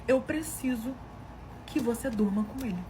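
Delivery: haltingly voiced plea with a pause after "preciso"; halting request. Husband making a shocking request of his wife, haltingly. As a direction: hold back after "preciso" before finishing. Pedido encenado com pausa antes.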